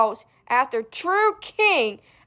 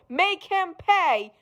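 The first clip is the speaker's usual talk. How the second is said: sinister urging; 5 semitones higher, 3 dB quieter, slower than usual. Acted.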